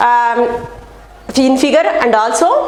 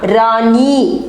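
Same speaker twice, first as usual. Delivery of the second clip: slow demo word; 2 semitones lower, much slower than usual. Shown as a demonstration. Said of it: "बड़ी ई लिखना".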